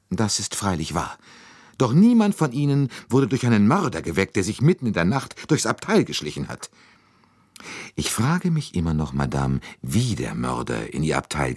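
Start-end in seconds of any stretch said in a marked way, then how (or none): 1.8-6.7 higher, dramatic complaint; aggrieved lady passenger. A narrator's reading. Lady telling fellow travellers of the murderer's visit, aggrieved. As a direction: make your ordeal outdo everyone else's.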